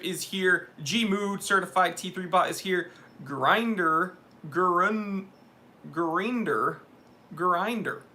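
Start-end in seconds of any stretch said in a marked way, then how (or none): 3.2-4.2 "Grinder" with a long "eye" vowel; unsure pronunciation. Real, not acted. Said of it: "I don't know how to pronounce that". 5.9-6.8 "Grinder" as guh-REEN-der, rising at the end; unsure pronunciation. Real, not acted. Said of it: "I don't know how to pronounce that". 7.3-8.0 "Grinder" as guh-RYN-der, falling at the end; unsure pronunciation. Real, not acted. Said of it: "I don't know how to pronounce that".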